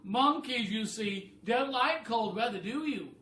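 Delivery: high, loud bossy bird voice; a high, loud, clever-bird voice; roly-poly bird voice. Acted. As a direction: squawk it like a know-it-all bird. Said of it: "the roly-poly bird".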